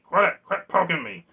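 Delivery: loud high shout of a poked toy; exasperated poked game character. Pretend. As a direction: yell at the finger poking you. Voicing the poked figure, louder.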